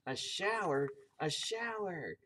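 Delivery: high, mock scream of delight; storybook kids' squeal; children's excited scream. A narrator's reading. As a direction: cry out like delighted children, lightly hammed-up. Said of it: "screamed Missus Ralph's four children".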